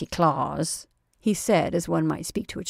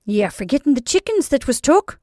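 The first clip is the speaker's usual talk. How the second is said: suggesting; 8 semitones higher, 8 dB louder than usual. A narrator's reading. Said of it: "suggested Missus Flannery".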